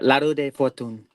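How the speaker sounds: La Roue de Fortune with Spanish-like vowels, not real French; second go at La Roue de Fortune, still un-French; Spanish-sounding French. Shown as a demonstration. Tarot reader retrying the French card name, Spanish-sounding French. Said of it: "That sounds more like Spanish".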